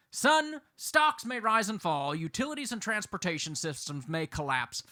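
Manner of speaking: a hint of a father passing on wisdom; father's advice. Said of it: "my father said to me".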